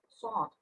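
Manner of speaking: "short" with no W sound; silent W. Shown as a demonstration. Teacher showing students the silent letter, W left out of "short". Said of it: "chữ W này trong tình huống này không được".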